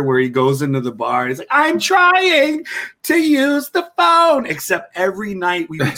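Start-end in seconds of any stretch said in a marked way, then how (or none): 1.5-4.5 high, slow nasal-free Pee-wee voice; much higher, slower Pee-wee Herman whine; Pee-wee impression. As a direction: squeak it out like Pee-wee in the bar. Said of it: "like Pee-wee's Great Adventure".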